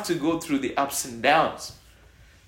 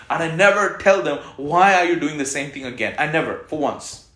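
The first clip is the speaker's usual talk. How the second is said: emphatic; 7 dB louder than usual. Real, not acted. Preacher raises voice emphatically.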